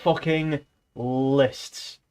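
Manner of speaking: very slow, each word drawn out; dragged-out groan of complaint. Real, not acted. Griping to viewers about Orwell's lists, very slow and weary. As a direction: moan it like you're fed up.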